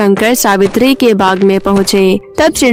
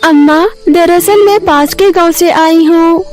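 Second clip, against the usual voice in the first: tag above; 6 semitones higher than usual. Acted. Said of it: "एक लड़की का रूप बदलकर".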